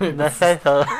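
tongue held, words blurred; holding tongue with fingers. Shown as a demonstration. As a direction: say it gripping your tongue. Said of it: "hold your tongue and say Myth Aethel".

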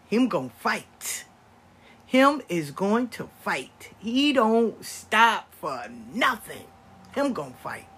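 rally the crowd behind him; fired-up. Real, not acted. Grandma bragging about grandson, loud and slow.

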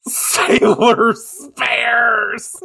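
high, drawn-out mock cry; gleeful exclamation. Host gleefully echoing her co-host's nickname, gleeful exclamation. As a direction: stretch it out long, high and loud.

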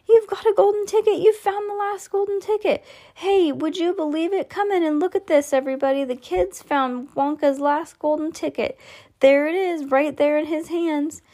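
very high, frantic squealing shout; overjoyed shopkeeper calling everyone in; excited screaming. Acted. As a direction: shriek it to the whole street. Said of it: "screamed the shopkeeper".

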